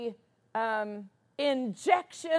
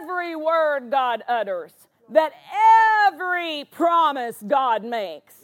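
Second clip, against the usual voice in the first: forceful declaration leaning on each "every"; emphatic preaching; 6 dB louder than usual. Real, not acted. Preacher to congregation on God's every promise, forceful and emphatic. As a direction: build the promise phrase by phrase.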